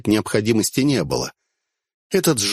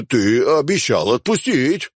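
slow insistent repeat, stress on отпустить; 3 semitones higher than usual. Acted. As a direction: drag out обещал отпустить. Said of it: "повторил жжёный".

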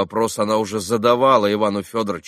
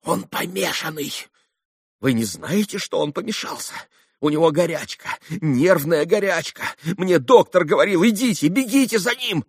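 much higher, agitated pleading; frantic urging; 9 semitones higher than usual. Acted. Katerina sending Alyosha after Ivan, frantic urging. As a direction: urge him on in panic.

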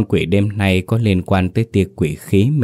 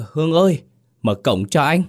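high call toward the house, starting much higher; 8 semitones higher than usual. A narrator's reading. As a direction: call her name across the yard to open the gate. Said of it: "gọi với vào bên trong".

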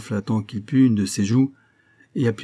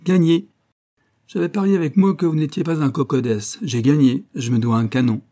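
higher, louder triumphant crow; gleeful outburst; 5 semitones higher, 4 dB louder than usual. A narrator's reading. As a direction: crow over a bet won. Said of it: "Toto éclata de rire". (exclamation triomphante, plus aiguë et plus forte)

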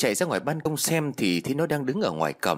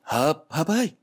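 raised, high narrated holler; yelling out; 5 semitones higher, slower than usual. A narrator's reading. Trang calls Hợp from outside his door, mild yell. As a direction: call out sharply for a friend, higher pitched. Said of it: "gào lên".

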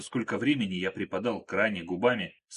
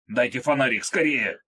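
louder, higher urgent plea; man who thinks he was bitten, louder and panicky; frightened urgency; 3 semitones higher, 5 dB louder than usual. Acted. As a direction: demand the torch in a rising panic. Krot fears a snakebite.

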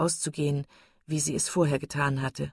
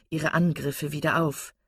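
ordinary delivery

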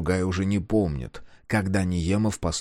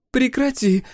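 sharp, much higher interruption; horrified cut-off; 5 dB louder than usual. A narrator's reading. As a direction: stop her before she says it. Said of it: "в ужасе перебивает её Тея".

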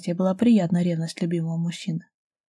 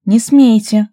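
sharp loud higher command; raised voice; 4 semitones higher, 12 dB louder, much slower than usual. A narrator's reading. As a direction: stop them with a loud warning. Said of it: "повысил голос Дарья". (повысив голос, резко)

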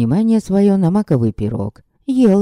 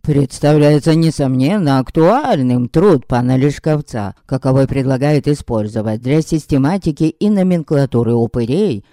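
words round a bite of pie; mouth full; 3 semitones lower than usual. Acted. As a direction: talk through sticky dough. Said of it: "зубы его вязли в непрожаренном тесте".

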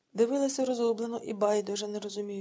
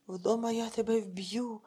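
hissed threat; slower than usual. Acted. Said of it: "прошипіла розлючена Ольга".

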